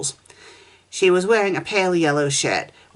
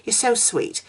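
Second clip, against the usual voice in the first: put-on sweet girl; 6 semitones higher than usual. Girl gushing at Poplio.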